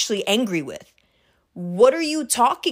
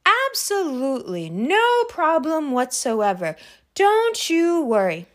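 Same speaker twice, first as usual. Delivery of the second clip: placating; 2 semitones higher, slower than usual. Retold or imitated. Imitating dad placating the caller.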